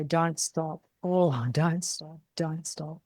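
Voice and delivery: "Don't stop" drawn out, soft and slow; pleading don't stop. Shown as a demonstration. Owner showing same words as a soft plea. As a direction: beg them to keep going, softly. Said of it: "But you could also say".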